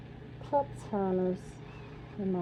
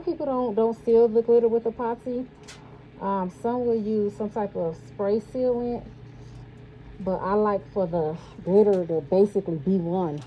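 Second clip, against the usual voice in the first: muffled through a mask; talking behind a face mask. Real, not acted. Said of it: "I'm hoping y'all can hear me as I'm speaking through this mask".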